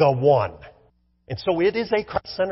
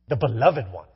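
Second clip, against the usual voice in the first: savoured; 11 semitones lower than usual. Shown as a demonstration.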